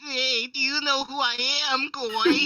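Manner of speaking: exaggerated Jewish accent parody; mock Jewish accent. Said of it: "I can't make a Jewish accent".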